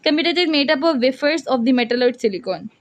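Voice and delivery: word by word, for writing down; slow dictation. Shown as a demonstration. Teacher dictating the computer chip definition to students, slow.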